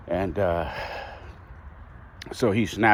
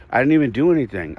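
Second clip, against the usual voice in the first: retold kid's protest, quick and higher; indignant child's protest; 5 semitones higher, 4 dB louder, faster than usual. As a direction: protest like a wrongly blamed kid, mildly heated. Little son protests in the quarrel.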